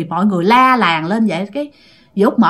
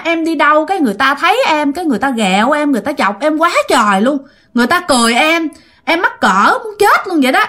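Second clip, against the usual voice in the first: higher-pitched retold grievance; plaintive complaint; 4 semitones higher than usual. Dead aunt telling the family how people teased her, plaintive complaint. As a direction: complain in a raised, embarrassed voice.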